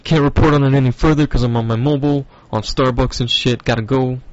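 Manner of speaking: mildly panicked, hurried sign-off; mock freaking out. Caller on mobile cutting the report short, mock freak-out. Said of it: "who are freaking out".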